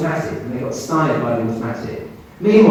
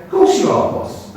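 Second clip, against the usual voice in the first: Cockney voice; 4 dB louder than usual. Acted. Spirit in a dream answering the doubting doctor, Cockney voice. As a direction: put on a pitched-up Cockney voice. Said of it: "a Cockney voice say".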